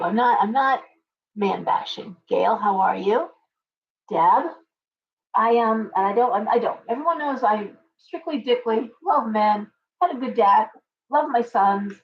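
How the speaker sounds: normal talking voice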